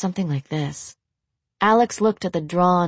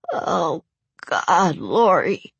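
babbling; much slower than usual. Acted. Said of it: "he babbled".

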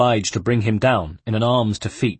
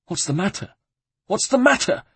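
outraged echo; 11 semitones higher than usual. A narrator's reading. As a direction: throw the question back, soaring in outrage. Abbot echoes Ezio in outrage.

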